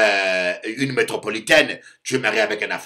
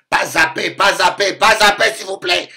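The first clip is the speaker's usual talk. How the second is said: rising louder with each "pas zapper"; mock pleading; 7 semitones higher, 7 dB louder than usual. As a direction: beg her to calm down, building. Pleading with the angry wife.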